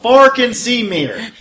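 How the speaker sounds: put-on Folgen Sie mir in a loud, slow, hammy German accent; bad German accent. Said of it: "I say it in really bad German".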